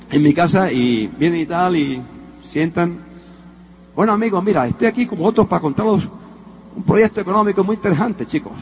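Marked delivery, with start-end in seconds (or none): 3.9-8.5 put-on a light borrowed Cuban accent, quick. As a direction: pitch the plan with a slight Cuban accent. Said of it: "¿Cómo hablas así?".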